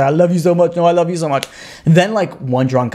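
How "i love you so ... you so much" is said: mildly acted drunken gushing; a touch of mock slurred blubbering; weepy drunks slurring. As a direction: play two sappy drunks lightly. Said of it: "slurring over the world, and they're, like, crying over each other".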